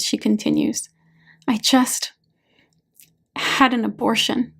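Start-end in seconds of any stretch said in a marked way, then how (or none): 1.5-4.5 choked confession. A narrator's reading. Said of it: "Choking on the words".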